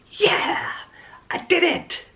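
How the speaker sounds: very high, breathy cheer of victory; mock triumphant squeal. Writer celebrating the finished first draft, high mock cheer. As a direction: squeal it like you just won.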